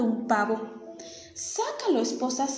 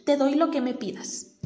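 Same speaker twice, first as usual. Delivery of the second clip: pleading milkman; 2 semitones higher, 4 dB louder than usual. Acted.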